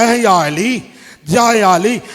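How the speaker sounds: mild wailing call; a touch of weeping in the call; crying out. Acted. Prophets call to Ali, mildly tearful. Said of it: "रोकर कहा".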